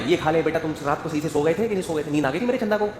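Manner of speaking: put-on quick, sweet coaxing of a spoiled child; doting father. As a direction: fuss over the little one like a doting dad.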